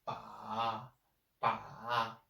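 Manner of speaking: "Ba" drawn out on a low dipping tone; third tone. Shown as a demonstration. Teacher drills the syllable for learners, low third tone. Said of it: "The third tone".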